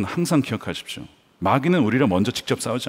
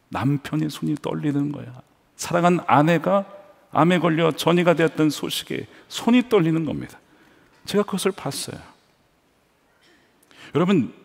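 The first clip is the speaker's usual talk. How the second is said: ordinary delivery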